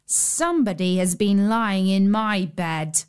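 lightly voiced middle bear; a hint of a middle-sized bear. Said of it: "in his middle voice".

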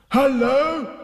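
high, loud happy greeting; gleeful storybook hail; joyful shout. Acted. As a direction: call out with delight. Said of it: "he shouted joyfully".

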